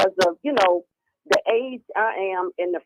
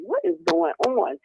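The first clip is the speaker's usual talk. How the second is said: baffled mom; 10 semitones higher than usual. Retold or imitated. Mother baffled by teenage daughters.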